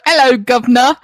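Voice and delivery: hammed-up English greeting; mock English accent. Teasing co-host about copying English coworker, mock English accent. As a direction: put on a cheeky English accent. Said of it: "like, the same way he did".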